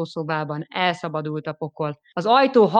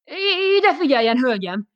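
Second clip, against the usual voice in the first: stammering; 8 semitones higher, 4 dB louder than usual. Acted. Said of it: "kezdte hebegve".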